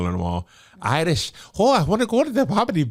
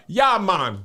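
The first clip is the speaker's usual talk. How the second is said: put-on Jamaican accent; 3 semitones lower than usual.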